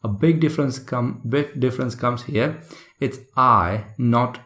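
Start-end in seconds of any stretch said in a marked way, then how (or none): 3.4-3.9 "I" dropping down suddenly; sudden drop. Shown as a demonstration. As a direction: let the tone of "I" fall away sharply. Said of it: "literally dropping it down suddenly".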